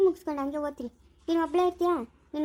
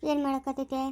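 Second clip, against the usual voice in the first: consoling. Shown as a demonstration. Woman shows child how to comfort crying mother, gently consoling. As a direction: show how to soothe someone grieving. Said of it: "ಇದು ಸಮಾಧಾನ ಮಾಡು".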